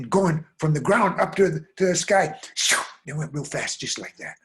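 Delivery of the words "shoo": whooshing noise. Acted. Imitated whoosh of fast runners.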